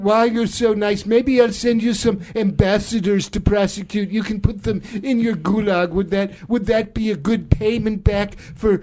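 lightly fawning presidential impression; Donald Trump. President touched by Pooty's kindness, light fawning impression. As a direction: mimic a president gushing over his pal. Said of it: "Donald Trump and Vladimir Putin".

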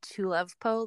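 Tulevpo, the last syllables of Tupolev swapped; jumbled name. Shown as a demonstration. Admitting the private name for the plane, jumbled pronunciation. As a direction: say Tulevpo as too-lev-poh. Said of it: "like I've been in my head".

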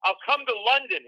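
high, flustered blurting; panicked babbling. Retold or imitated. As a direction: imitate yourself nervously stammering, then blurt it out. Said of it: "I'm shaking and I'm sweating".

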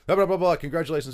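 high, loud blah-blah mimicry; mock a hearty congratulator, pitch jumping up; imitated phone congratulations. Player imitating team staff congratulating him by phone, hearty mock babble.

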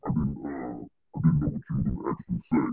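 fuzz distortion; garbled, crackling phone line; distorted audio. Real, not acted. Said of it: "'Cause she sounds distorted to me".

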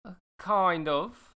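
put-on lightly done Australian accent as Gemma. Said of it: "let me get into my Australian accent".

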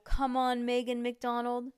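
plain reading voice

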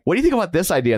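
bright high-pitched asking; high mock question. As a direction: ask it in a high eager voice. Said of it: "We were like".

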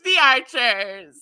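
slow, falling vampire drawl; "The Archers" dragged out slowly like a vampire. Pretend. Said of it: "why am I got into vampire voice?".

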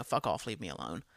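low, soft fuck off; muttered brush-off. Retold or imitated. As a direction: grumble it under your breath. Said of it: "Like, you know".

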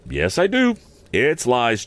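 put-on high-pitched, earnest boy's admission; confessing boy. A narrator's reading. Boy admitting lies to Joe, confessing.

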